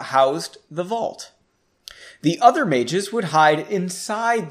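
steady storyteller reading a chapter aloud; story narration. A narrator's reading. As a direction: tell the heist tale to the listeners. Reads fantasy story aloud.

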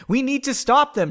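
impassioned, emphatic warning; with conviction. A narrator's reading. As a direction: press the danger on the listener. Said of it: "she said with conviction".

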